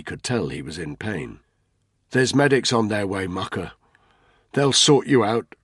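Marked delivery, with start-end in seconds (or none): 2.1-5.5 faltering reassurance. A narrator's reading. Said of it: "he heard his voice falter".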